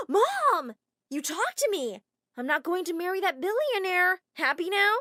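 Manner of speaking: high, loud angry retort; shouting back. Acted. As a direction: fire it back at mom. Daughter shouts back at mom.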